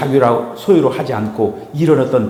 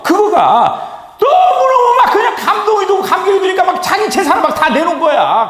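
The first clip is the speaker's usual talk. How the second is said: high, loud burst of fervour; impassioned preaching; 4 dB louder than usual. Acted. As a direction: preach it at a high-pitched near shout.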